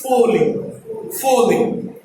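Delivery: "falling" slowly with a rounded "o"; teacher's careful "falling" with an O vowel; rounded O sound. Shown as a demonstration. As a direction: say "falling" as "foh-ling", lips rounded. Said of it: "That simple sound is".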